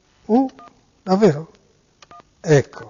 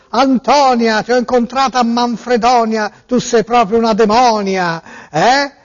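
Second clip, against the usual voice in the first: theatrical swelling poetry reading; 3 semitones lower than usual. Pretend. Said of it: "il poeta pazzo della poesia folle".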